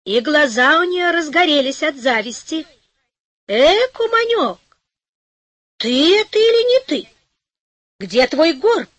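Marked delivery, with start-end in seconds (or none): 3.5-8.9 put-on envious old woman. A narrator's reading. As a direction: squawk it out like a nosy old crone. Envious old neighbour voiced.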